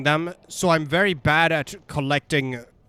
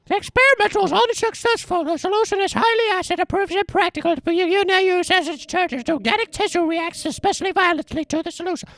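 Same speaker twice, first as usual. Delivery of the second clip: much higher reading voice; high, strained character voice. Acted. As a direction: read the letter in a high voice. Reads a note in voice.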